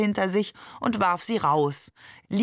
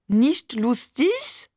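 very slow, high, loud mocking French accent; exaggerated French accent; 5 semitones higher, 5 dB louder, much slower than usual. A narrator's reading. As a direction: mimic Maman's French accent to tease her. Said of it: "ahmte Barbe übertrieben Mamans französischen Akzent nach". (übertriebener französischer Akzent, höhnisch nachgeäfft)

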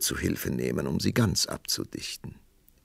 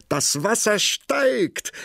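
aufgeregter Ruf; 6 dB louder, slower than usual. A narrator's reading. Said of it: "und rief".

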